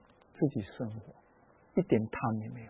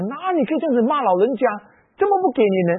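indignant retort; 5 semitones higher than usual. Retold or imitated. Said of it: "我当时我很生气啊".

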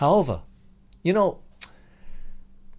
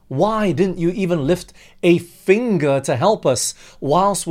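loud, exasperated complaint building up; frustrated complaint; 4 dB louder than usual. Acted. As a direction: scold Jesus for not helping. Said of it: "It was more like".

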